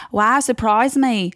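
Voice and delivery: drawn-out catty British sarcasm; taunting mock surprise; bitchy British contestant. Contestant rubbishing a design, bitchy. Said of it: "little bitchiest little twink".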